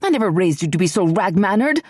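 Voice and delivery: mild maternal outrage. Acted. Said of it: "the light of maternal outrage in her eye".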